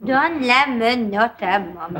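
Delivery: playing the mother. Roommate mocking Denise by playing her mother. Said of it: "Tu veux jouer à la mère".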